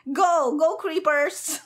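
root for them like at a match; excited cheering. Real, not acted. Cheering on creepers in game.

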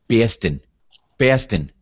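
Boston with the r dropped and a flat vowel; Boston accent, mild. Shown as a demonstration. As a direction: say Boston like a local from Boston. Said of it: "Is that how they say it?".

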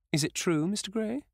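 put-on high, rising, astonished old lady; surprised question. A narrator's reading. Hostess asking Dorian in astonishment, pitched high. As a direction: squeak it out amazed.

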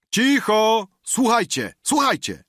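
high, loud call "Cicho! Słuchajcie"; calling for silence. Acted. Guest calls the rowdy table to silence, shouting. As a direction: hush the room and demand attention.

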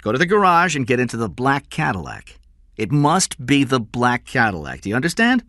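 commanding. Acted. Kidnapper dictating ransom terms by phone, commanding. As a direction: lay down orders firmly.

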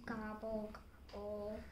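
low, soft grumbling gobble; turkey grumbling after being caught out; grumbled gobble. A narrator's reading. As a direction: gobble it out under your breath, sulking. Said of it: "grumbled Turkey".

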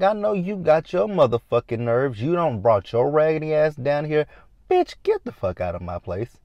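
mock-angry, tell her off and throw her out; indignant telling-off. Recapper voices Gloria throwing Claudia out, indignant.

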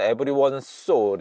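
EVERYONE SO linked through one s; merged S sounds. Shown as a demonstration. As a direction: run EVERYONE straight into SO. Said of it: "so하고 합쳐져서".

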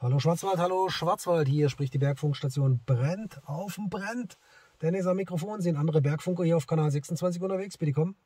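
formal CB calling announcement; radio call-out. Real, not acted. Radio operator calling other mountain stations on channel 26, formal call-out.

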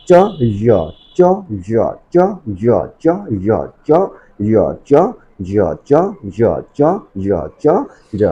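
isolated drill of চ and জ from mid-tongue; sounds from mid-tongue. Shown as a demonstration. Teacher showing where letters are articulated, mid-tongue চ and জ. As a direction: alternate চ and জ, each made with the middle of the tongue. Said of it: "জিহ্বার মাঝখান থেকে উচ্চারিত হবে".

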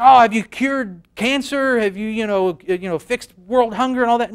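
lightly voiced disappointed inventor; imitating an inventor. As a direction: play a let-down genius from the past. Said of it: "they'd be like".

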